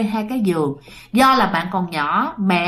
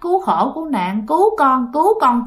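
frantic prayer; 4 semitones higher than usual. Retold or imitated. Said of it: "kêu vậy đó".

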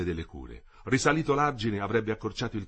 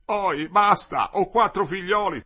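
higher, loud, slow begging; desperate pleading; 9 semitones higher, 7 dB louder, slower than usual. A narrator's reading. Olindo under the blows begs his torturers, pleading. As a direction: beg for your life. Beaten man begs for mercy.

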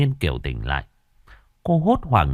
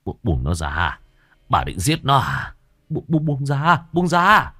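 frightened husband begging wife to let go; stammering panic; 5 semitones higher than usual. Acted. Husband begs his wife to release Kiều, stammering panic.

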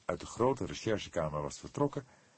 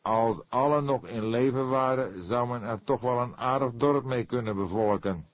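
creaky voice; 6 semitones higher, 6 dB louder than usual. A narrator's reading. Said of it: "met zijn typische kraakstem".

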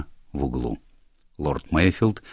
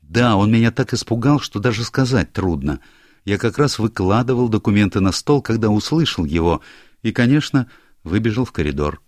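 put-on higher, louder eager young man; a hint of an anxious young clerk; lightly voiced young secretary; 6 semitones higher, 4 dB louder than usual. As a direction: play the flustered secretary explaining himself. Secretary's account.

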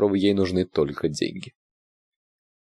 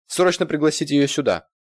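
high loud order; commanding; 9 semitones higher, 4 dB louder than usual. A narrator's reading. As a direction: demand the manager now. Irina orders the manager.

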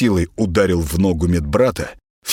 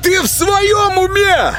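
very high, loud outraged cry; John screaming after the bite; shouting; 4 dB louder, slower than usual. Acted. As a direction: yell in shock and pain. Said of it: "закричал Джон".

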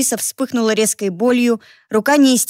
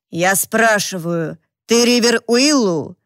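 slow, menacing, each word weighed; stern slow demand; slower than usual. Acted. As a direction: press the question slowly, coldly. Gunman repeats his demand.

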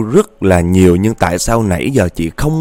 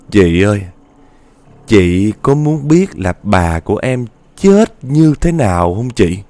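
put-on slow, drawn-out, eerie child's question; creepy ghost girl; slower than usual. Ghost girl leaning to the rider's ear, slow and eerie. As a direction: stretch each word to chill her.

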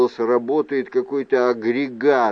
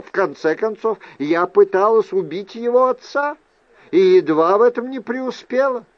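a hint of Fiona, pitched higher as it builds; lightly voiced aunt; 4 semitones higher than usual. Aunt explains her hasty departure to nephew, lightly acted. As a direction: explain yourself, voice climbing toward the end.

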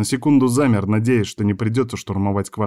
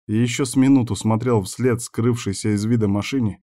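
ordinary delivery, nothing marked

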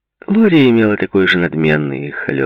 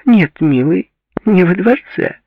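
playful high-pitched retort, louder; laughing reply; 6 dB louder than usual. A narrator's reading. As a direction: answer high and loud, as if amused. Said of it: "со смехом отозвалась".

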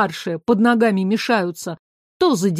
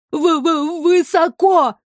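stuttering, then a high frightened cry; stammer, then cry out in fear; terrified stammered cry; scared cry; 6 semitones higher, slower than usual. A narrator's reading. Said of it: "крикнул он".

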